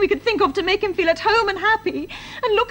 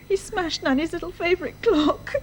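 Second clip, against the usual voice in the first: softer, tearful report; crying; 2 semitones lower, 5 dB quieter than usual. Acted. Daughter tells father about the clock, crying softly. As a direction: let the tears break through quietly. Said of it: "Darling, why are you crying?".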